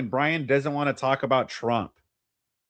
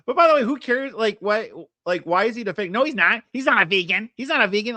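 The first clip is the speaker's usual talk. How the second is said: incredulous; 5 semitones higher than usual. Real, not acted. Co-host mocking guest's point.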